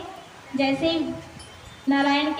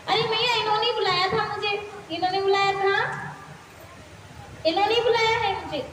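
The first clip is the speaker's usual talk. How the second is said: put-on higher, innocent little boy's voice; child Krishna; 4 semitones higher, faster than usual. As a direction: plead like a small child caught out. Child Krishna answers his mother.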